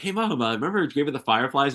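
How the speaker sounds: lightly acted high-pitched call; re-enacted prompting. Son re-enacts asking his mom about a film, lightly acted high call. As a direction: pipe up to Mom, imitating a casual question.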